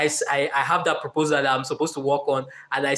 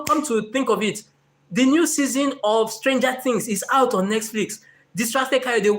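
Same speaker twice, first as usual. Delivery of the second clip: higher, teasing tempter voice; coaxing dream self; 4 semitones higher than usual. Retold or imitated. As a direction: lure him with the new show. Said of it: "Then dream Kayode says".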